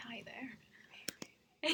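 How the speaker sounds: close-mic ASMR whisper, laughing; right in your ear. Pretend. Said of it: "she's going for A S M R".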